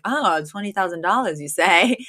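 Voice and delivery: imitating someone way too interested; mock over-interest. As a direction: feign casual interest in the money. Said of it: "like, way too interested".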